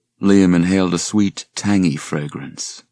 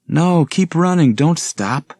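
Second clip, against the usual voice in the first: high, loud urging while running; 11 semitones higher, 5 dB louder, slower than usual. Acted. Reba urging Suzanne to keep running, high urgent call. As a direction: push her friend to keep going.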